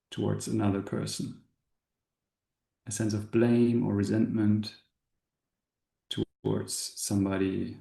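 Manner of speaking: calm guide, long pauses between short phrases; spacious meditation voice, settling at phrase ends; guided meditation. Acted. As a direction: gently lead an inward contemplation, unhurried. Leads a meditation.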